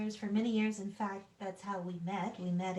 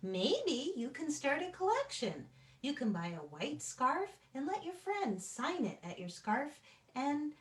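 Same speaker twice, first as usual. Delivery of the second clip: put-on bright, playful read-aloud for children; dramatic storybook reading; 3 semitones higher than usual. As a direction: read it like a fun suggestion to a friend. Reading picture book aloud dramatically.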